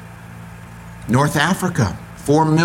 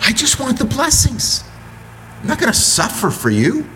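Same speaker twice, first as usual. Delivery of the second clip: higher pleading whine; whiny cat; 10 semitones higher than usual. Acted. Cat refusing suffering, high whine. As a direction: insist like a spoiled pet. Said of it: "And a cat says".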